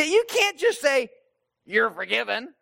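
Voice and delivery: mock indignant objection, starting high; frustrated. Religious teachers challenging Jesus on forgiveness, frustrated. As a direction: protest like an affronted rule-keeper. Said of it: "they're frustrated at Jesus".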